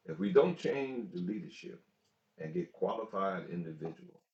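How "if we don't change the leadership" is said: higher and louder, pressing the point; emphatic repeat. Real, not acted. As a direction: hammer the warning home. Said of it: "I'll say that again".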